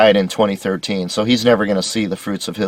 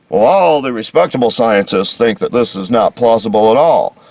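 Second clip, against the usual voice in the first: mocking voice. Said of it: "sounds like the consensus argument".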